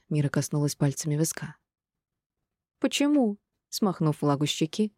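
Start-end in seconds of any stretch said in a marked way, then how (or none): 2.8-3.4 surprised. A narrator's reading. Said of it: "удивлённо уставилась на мать".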